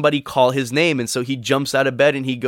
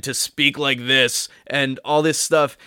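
a lightly booming voice of God, slow; mock a thundering heavenly voice, slowed down; a hint of a grand voice from the sky; earth-shattering voice. Shown as a demonstration. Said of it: "break in with this earth-shattering voice".

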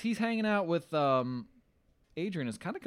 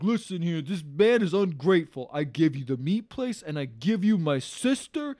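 mock drunk rant; 2 semitones higher, 5 dB louder, slower than usual. Paulie ranting at Adrian.

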